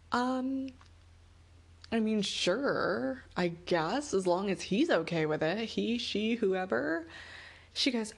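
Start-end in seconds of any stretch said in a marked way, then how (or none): 0.1-7.1 reluctant agreement. Retold or imitated.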